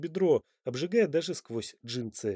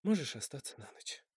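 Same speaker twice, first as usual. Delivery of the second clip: softer, sighed invitation; woman sighing an invitation after a kiss, softer; 8 dB quieter than usual. Acted. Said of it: "со вздохом сказала Топси".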